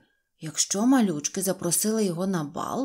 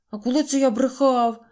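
high, loud astonished question; taken aback and affronted; indignant surprise; 5 semitones higher, 6 dB louder than usual. A narrator's reading. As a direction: protest innocence in a raised voice. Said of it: "здивувався Незнайко".

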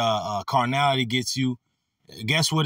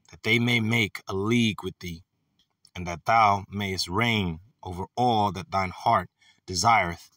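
measured Bible reading, phrase by phrase; scripture reading. Acted. Preacher reading verses to his brothers, measured scripture reading. Reads scripture aloud between comments.

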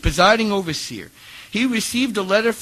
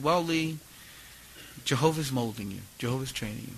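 soft, low retold counsel; calm fatherly advice, softly voiced; mildly soothing mentor; 4 semitones lower, 8 dB quieter than usual. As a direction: gently reassure a younger man, quietly.

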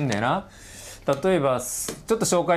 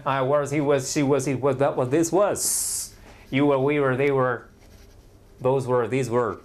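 quick drill; slower than usual. Shown as a demonstration. Teacher drilling students, brisk rhythmic recital. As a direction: rattle off the pairs in one rhythmic run. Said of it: "言える？パパパパパッ".

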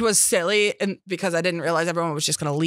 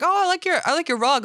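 imitating mom; 11 semitones higher than usual. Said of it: "my mom's like".

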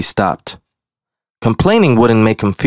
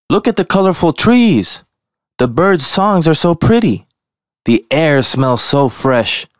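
delighted wonder; 6 semitones higher than usual. Acted. Bear admiring nature.

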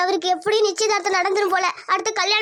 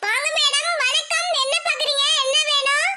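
put-on higher, polite shop girl greeting customers; eager salesgirl welcoming customers in a higher voice; saree shop assistant; 6 semitones higher than usual. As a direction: play the eager salesgirl, pitched up.

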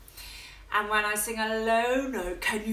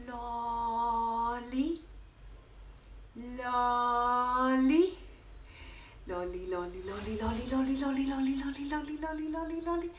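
much softer little mouse chant; soft tiny lollipop chant; teeny tiny; 6 dB quieter than usual. Shown as a demonstration. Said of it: "teeny tiny like a little mouse".

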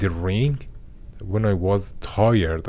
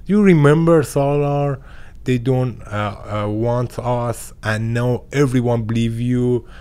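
1 dad laughing; 2 semitones higher, 4 dB louder than usual. Retold or imitated. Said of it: "always he laughing and said".

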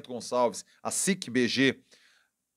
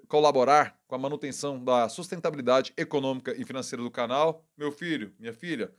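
usual speaking voice

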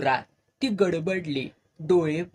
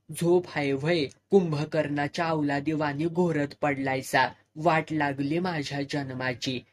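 a wife nagging her snoring husband; understated domestic quarrel; snapping at each other. Acted. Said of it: "एकमेकांवर खेकसत होती".

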